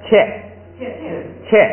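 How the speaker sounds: 切 said slowly, one syllable at a time, as a model; teacher models 切 for the class to repeat; Tibetan reading 切. Shown as a demonstration. Teacher reading the new sound to students, slow model. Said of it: "所以还是切".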